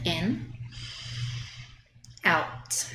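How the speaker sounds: soft ocean-throat breathing sounds; Ujjayi breath. Shown as a demonstration. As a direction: breathe through the throat, audibly. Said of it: "with the Ujjayi breath".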